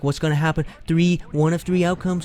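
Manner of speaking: acting out anxious excitement; retold suspense. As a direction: hype up the suspense. Retells suspense at the climax.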